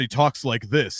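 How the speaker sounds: imitated blown voice, dropped into a dulcet tone; co-host's blown-out voice. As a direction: do the co-host with his voice gone, in mock dulcet tones. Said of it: "but then his voice gets blown".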